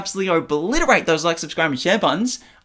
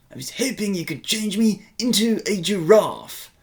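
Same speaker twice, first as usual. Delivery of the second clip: British accent practice; 3 semitones higher than usual. Shown as a demonstration. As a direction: practise British, stretching the vowels. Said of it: "practice my British accent".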